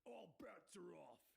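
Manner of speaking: slow, rough half-whispered call; hushed-edged challenge from the crowd. Acted. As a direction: interrupt with a slow, husky declaration. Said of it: "a voice calls out".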